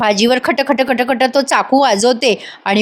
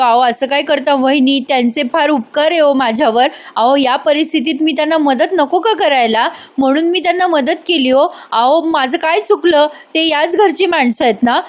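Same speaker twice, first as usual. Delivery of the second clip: higher, anxious plea to his sister-in-law; pleading; 4 semitones higher than usual. Acted. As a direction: beg her to understand, voice raised and worried. Scared man pleads with sister-in-law.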